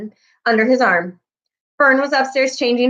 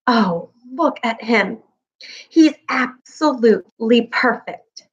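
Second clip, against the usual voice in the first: slow, hushed awe over the tiny pig; whisper; slower than usual. A narrator's reading. Fern whispering in awe at the newborn pig. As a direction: breathe it out in wonder. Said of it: "she whispered".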